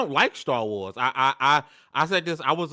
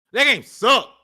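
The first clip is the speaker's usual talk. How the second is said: loud, high-pitched, angry ranting voice. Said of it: "the anger in your voice when you said that".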